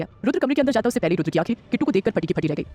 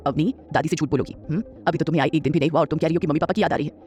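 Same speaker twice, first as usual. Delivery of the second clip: a grandmother who sees through the lie; 2 semitones lower than usual. Acted. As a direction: grandmother pressing her granddaughter for the truth. Grandmother voice, coaxing.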